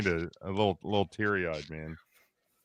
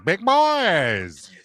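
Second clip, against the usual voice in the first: excited; 7 semitones higher, 4 dB louder than usual. Real, not acted. Hyping the draft order.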